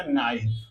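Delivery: फाइन said low and slow, with a long "aai" sound; teacher demo. Shown as a demonstration. Teacher says फाइन slowly so children hear it. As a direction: model the word फाइन clearly for the class. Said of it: "इसी तरह क्या हो जाएगा?".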